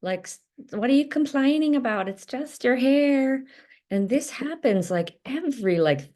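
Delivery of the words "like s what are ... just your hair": mocking dismissive father. Nanny retelling the father dismissing his crying daughter, mock scornful. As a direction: imitate a dad sneering at his crying child's complaint. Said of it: "And the father is saying".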